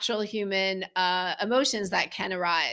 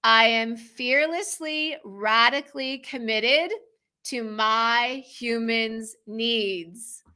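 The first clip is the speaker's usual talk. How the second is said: affirmation; slower than usual. Shown as a demonstration. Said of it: "Should we say it again?".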